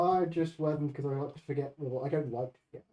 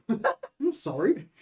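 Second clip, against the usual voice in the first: laughing; 5 semitones higher, much slower than usual. Real, not acted. Laughing mock apology.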